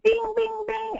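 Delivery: high, ringing bing sounds; ping each one out high like a bell; sing-song high dings; imitated bell dings. Imitates the moment it connects.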